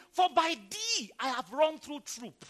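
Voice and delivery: loud, high-pitched preaching; rousing scripture proclamation. Real, not acted. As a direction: ring the verse out to the congregation.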